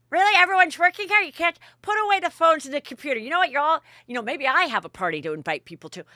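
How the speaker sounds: high, loud indignant mock rant; exaggerated loud huffiness; angry outburst, imitated. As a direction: act out someone ticking off the table. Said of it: "is still angry as can be".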